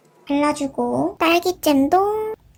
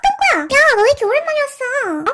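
high, surprised call of a friend's name; light up at seeing an old friend, pitched high; surprised delight; 10 semitones higher than usual. Acted. Shop owner spotting her long-lost friend, high surprised joy.

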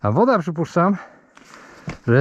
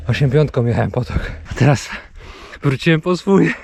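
wind knocked out; 4 semitones lower than usual. Real, not acted. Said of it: "I serio nie mogę oddychać".

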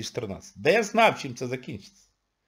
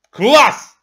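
mock delight; 9 semitones higher, 11 dB louder than usual. Real, not acted. Sarcastic joy at tax hike.

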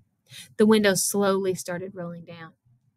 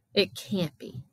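understated shaky disbelief; a slight tremble of dread; shaking voice; slower than usual. A narrator's reading. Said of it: "his voice shaking".

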